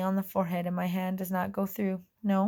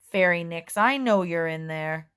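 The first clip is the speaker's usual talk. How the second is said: angry; 5 dB louder than usual. Acted. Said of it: "says an angry voice from outside".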